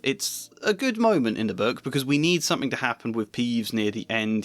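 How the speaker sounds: plain reading voice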